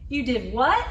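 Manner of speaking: "You did what" with a rise on "what"; confused disbelief. Shown as a demonstration. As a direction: ask it in disbelief. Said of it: "a kind of confusion".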